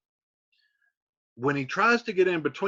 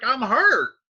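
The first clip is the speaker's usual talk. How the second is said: pained cry; 8 semitones higher, 7 dB louder than usual. Retold or imitated. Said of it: "he's like".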